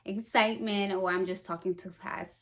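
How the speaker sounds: breathless talking; winded, short of air; out of breath. Real, not acted. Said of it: "I always get out of breath".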